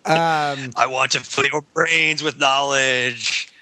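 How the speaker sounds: slow, lightly groaned zombie voice; drawn-out zombie talking about knowledge. Acted. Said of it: "that's my Vonnegut zombie voice".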